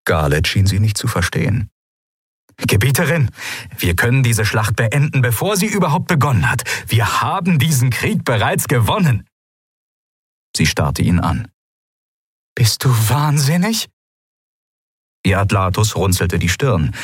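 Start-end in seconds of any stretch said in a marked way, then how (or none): 2.6-9.3 eager pitch. Acted. Eager aide pitching the weapon. 12.5-13.9 horrified. Acted. Ruler horrified at aide.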